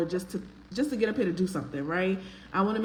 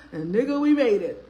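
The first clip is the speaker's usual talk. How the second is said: louder, laughing through the words; 3 semitones higher, 7 dB louder than usual. Real, not acted. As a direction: burst out laughing as you repeat it. Repeats it bursting into laughter.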